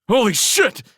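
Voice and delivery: high, loud shriek of alarm; startled scream. A narrator's reading. Jiller jumps as the heat ray strikes, screaming. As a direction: scream it in shock. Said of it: "screamed Jiller".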